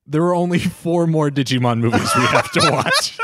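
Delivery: laughing. Real, not acted. Laughs mid teasing line.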